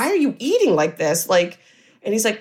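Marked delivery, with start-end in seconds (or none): 0.1-1.3 mildly distressed retold question, higher pitch; a touch of alarmed pleading. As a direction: imitate someone upset and baffled. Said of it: "like, distressed about the situation".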